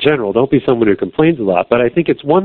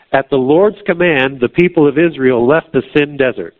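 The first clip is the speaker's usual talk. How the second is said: scripture reading; 2 semitones higher than usual. Acted. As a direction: read it out like a lesson from the pulpit. Reads Exodus aloud.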